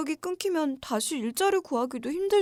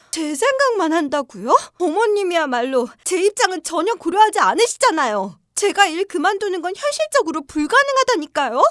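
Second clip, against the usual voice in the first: indignant; 2 semitones higher, 5 dB louder than usual. Acted. Daughter-in-law finally pushes back.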